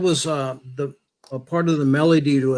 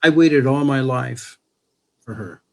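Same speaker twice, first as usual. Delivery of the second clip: tender declaration; 2 semitones lower than usual. Real, not acted. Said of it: "declares love to wife".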